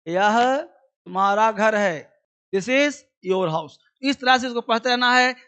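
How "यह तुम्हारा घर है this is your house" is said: slow model sentence. Shown as a demonstration. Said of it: "teacher models the sentence pair".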